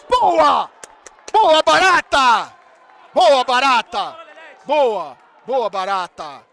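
very loud, drawn-out shouts easing off at the end; real explosive fan roar; roaring cheer. Real, not acted. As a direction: bellow praise at your keeper. Cheering the goalkeeper's save.

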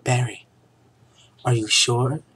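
high dramatic gasp of a question; overacted romantic heroine; hammy stage actor. Vanessa's dialogue, high and loud.

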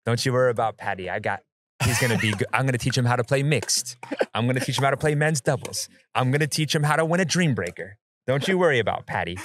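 lightly put-on French accent; a loose attempt at a French accent; Jay de Villiers impression. Pickleball player reassuring friends from the passenger seat, attempted French accent. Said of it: "That's your best French accent".

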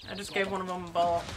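usual speaking voice

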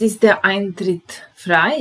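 loud model question. Shown as a demonstration. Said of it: "Broj četrnaest".

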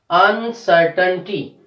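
"Uncertainty" slowed, syllable by syllable, CER stressed. Shown as a demonstration. Teacher showing third from last syllable, slow "unCERtainty". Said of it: "we are stressing on".

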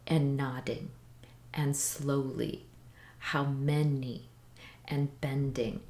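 "And nodding, and slowly, how many, and bending" in measured pairs, pausing after each; soft-then-strong beat on "nodding", "slowly", "many", "bending", first syllables stressed; iambic heartbeat rhythm. Shown as a demonstration. Poetry teacher demonstrating iambs, iambic heartbeat rhythm. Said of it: "I ams have the musical heartbeat".

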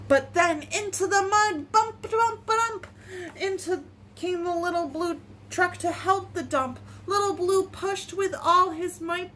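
gentle, measured story reading; picture-book reading. Acted. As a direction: read it simply for small children. Reads a picture book aloud.

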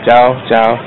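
halting learner Vietnamese, American accent; foreigner broken vietnamese. Real, not acted. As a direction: stumble through the greeting like a beginner. (tiếng Việt bập bẹ của người nước ngoài)

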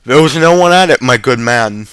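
offended. A narrator's reading. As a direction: deny it as if insulted. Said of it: "said with an offended air".

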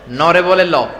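"নরে" with N, then "ল" with L; N turned into L. Shown as a demonstration. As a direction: say "ল" where "ন" belongs. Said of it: "পাবনার সমস্যা গেল".

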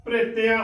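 ਪ੍ਰਿਤਿਆ with the r run into the p; quick half r. Shown as a demonstration. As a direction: say ਪ੍ਰਿਤਿਆ as "pre-teaa", r barely separate. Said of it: "ਉਚਾਰਨ ਕਰਨਾ ਹੈ".

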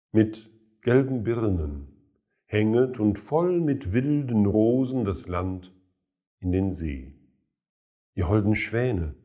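measured poetry reading with pauses between phrases; solemn recital, line endings falling away; poem recitation. Acted. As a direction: recite the verse deliberately, letting each image stand.

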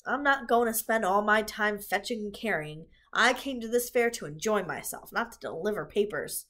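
loud, sneering rat voice. Acted. Templeton sneers at Charlotte, loud and sneering. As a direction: sneer it out, fed up. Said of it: "sneered the rat".

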